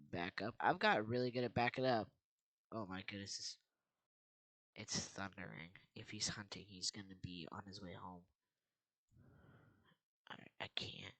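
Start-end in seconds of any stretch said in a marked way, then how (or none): 4.8-8.2 whispering. Real, not acted. Hiding from owner. 10.3-11.1 whispering. Real, not acted. Hiding from owner.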